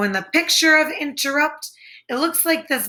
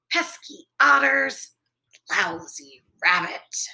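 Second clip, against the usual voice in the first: whispered thought; 5 semitones lower than usual. Acted.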